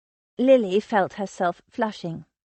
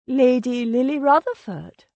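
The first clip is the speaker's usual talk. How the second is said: put-on girlish Sylvia; 5 semitones higher, 6 dB louder than usual. A narrator's reading. Sylvia grandly announcing Lily's title.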